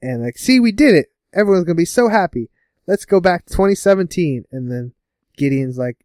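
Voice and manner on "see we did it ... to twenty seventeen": mock triumphant, pitched higher; hammed-up cheer; proud quote. Quoting overconfident heroes.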